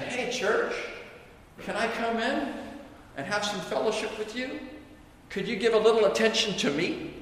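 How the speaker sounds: very hushed, tentative asking; timid plea. Acted. Jesus knocking at the church door, timid hushed plea. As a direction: plead softly from outside the door.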